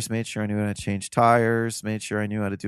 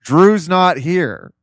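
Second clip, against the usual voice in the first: roommate answering; 7 semitones higher, 10 dB louder, much slower than usual. Retold or imitated. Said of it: "Joe goes".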